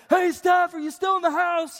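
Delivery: high, loud call through the house; imitated household shout to check who's there; yelling, not angry. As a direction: holler to someone rooms away. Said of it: "I'm really yelling, but I'm not yelling 'cause I'm angry".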